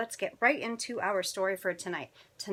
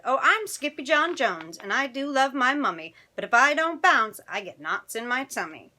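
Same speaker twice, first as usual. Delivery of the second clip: higher, bouncy rhyming chant; bouncy kitten; 5 semitones higher, 7 dB louder than usual. Acted. Kitten bouncing on his big boy bed, higher-pitched chanting. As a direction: play an excitable little cat reciting his rhyme.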